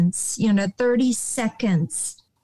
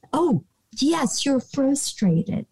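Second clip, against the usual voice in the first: gentle validation; 3 semitones higher, slower than usual. Retold or imitated. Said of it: "I'm frustrated".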